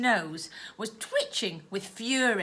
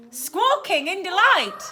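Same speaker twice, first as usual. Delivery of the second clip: higher, squawky bird voice; squawking owl voice; 8 semitones higher, 6 dB louder than usual. Shown as a demonstration.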